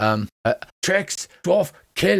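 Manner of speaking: crude, broken-word creature talk. Voicing the other kobolds, who speak very bad Common: very bad broken Common. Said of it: "speaking in extremely precise common".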